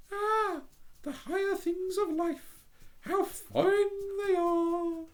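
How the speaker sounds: prim little duck voice, high. Acted. The Duck dreamy.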